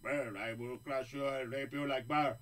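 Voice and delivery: a hint of a Russian brute; heavy foreign tough-guy accent. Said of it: "Tony Ferguson".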